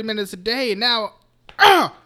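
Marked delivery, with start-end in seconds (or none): 1.6-1.9 high, slow, laughing mock groan; giggling fake relief. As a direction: laugh through the punchline. Mock numb arm, laughing.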